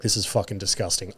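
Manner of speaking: low, hushed disgusted aside. Retold or imitated. Podcaster recalling his reaction to the nose-blower, quietly disgusted. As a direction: mutter it to yourself, low and soft. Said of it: "I'm in disgust".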